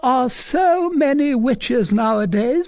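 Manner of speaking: put-on fussy old mother. A narrator's reading. Mother remarking on witches, high and loud. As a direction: chatter on like a fussing matron.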